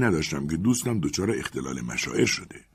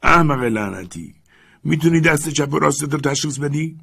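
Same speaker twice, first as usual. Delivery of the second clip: growling insult; 7 semitones higher, 5 dB louder than usual. Acted. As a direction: growl at the fool. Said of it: "لوگران غرید".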